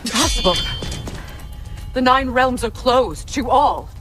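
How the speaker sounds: loud, high, slow declaration; forceful disbelief. Acted. Told they broke Tyr out, forcefully disbelieving. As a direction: thunder it out slowly, refusing to believe.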